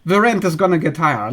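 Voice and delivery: mock aggressive reaction. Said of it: "they're gonna react aggressively".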